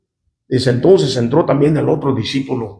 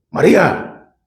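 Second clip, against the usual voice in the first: María raised a little in pitch, urging her to wake up; wake-up call; slower than usual. Retold or imitated. Jesus calling Mary to wake up, urgent second call. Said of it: "como diciendo, agarra la onda, despierta".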